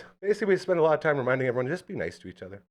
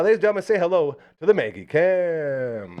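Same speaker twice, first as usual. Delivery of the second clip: announcer; 4 semitones higher, 7 dB louder than usual. Acted. Presenting the dog cam.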